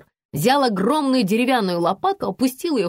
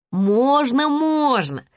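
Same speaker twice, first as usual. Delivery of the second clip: objecting; 5 semitones higher, 3 dB louder, much slower than usual. A narrator's reading. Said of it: "хором возразили".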